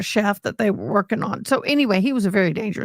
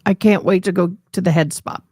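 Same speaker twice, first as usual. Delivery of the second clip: put-on Southern drawl; 2 semitones lower, 4 dB louder than usual. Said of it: "I'm talking like that on purpose".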